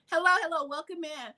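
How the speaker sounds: sarcastic greeting. Retold or imitated. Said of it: "You can hear this, the, the sarcasm".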